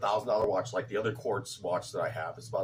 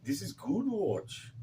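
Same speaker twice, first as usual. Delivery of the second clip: slow, higher mock Indian accent; bad Indian accent; 9 semitones higher, slower than usual. Asking listeners to judge the accent, bad Indian accent. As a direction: lean into a hammed-up Indian accent. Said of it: "how's my, uh, Indian bad accent?".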